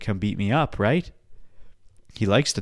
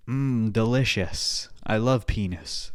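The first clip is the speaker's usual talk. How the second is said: mock inner voice; slower than usual. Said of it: "That's what he's thinking".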